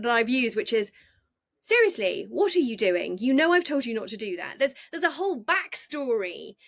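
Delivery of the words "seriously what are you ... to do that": mildly exasperated telling-off; a touch of stern reproach to a misbehaving dog; scolding tone. Acted. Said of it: "it's the tone of that".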